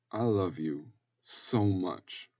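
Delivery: slow, heartfelt declaration; tender. Acted. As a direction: say it slowly to comfort a child. Nona comforts crying child.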